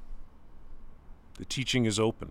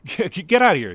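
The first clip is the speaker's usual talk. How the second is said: laughing; 9 semitones higher, 10 dB louder than usual. Acted. Teasing his father, laughing.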